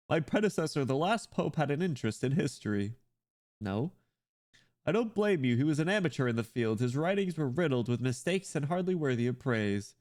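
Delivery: lightly voiced scholarly pope; a hint of a formal church leader; pope character. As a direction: hold forth as a pontiff discussing a predecessor.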